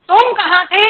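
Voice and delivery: "तुम कहाँ थे" with तुम up front and punched; stress on you. Shown as a demonstration. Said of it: "I am stressing you". ("तुम कहाँ थे" में तुम पर ज़ोर)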